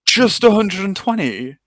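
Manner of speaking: high, slow disbelieving question; surprised. Real, not acted. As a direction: ask it in shocked disbelief. Player shocked by small gold.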